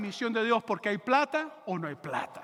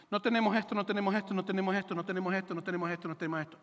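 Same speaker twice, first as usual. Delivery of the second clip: monotone repeated complaint, steadily fading; complaining people; 2 semitones lower, 3 dB quieter, faster than usual. Retold or imitated. People listing what they lack at a meeting, droning complaint. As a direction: drone the same excuse over and over, sinking away. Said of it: "y empieza la gente".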